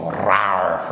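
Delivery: low roar spoken as a word; mock roar. Shown as a demonstration. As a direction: give a low, drawn-out "rawr". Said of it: "makes you go".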